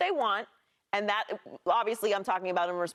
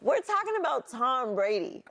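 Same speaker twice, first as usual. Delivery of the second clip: laughing; 5 semitones higher than usual. Real, not acted. Calming heated debate.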